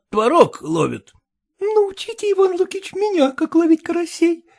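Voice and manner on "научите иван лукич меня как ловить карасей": put-on high girlish voice, eager; a young girl pleading to learn fishing; girlish eager request, pitched high; young Lidia. A narrator's reading. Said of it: "сказала Лидия".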